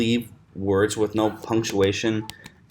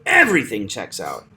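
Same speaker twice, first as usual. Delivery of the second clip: "Everything" punched on its first half; front-stressed "Everything"; stress on EVERY; 3 semitones lower than usual. Shown as a demonstration. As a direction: hit the start of "Everything", then drop. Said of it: "one half of a word will be stressed".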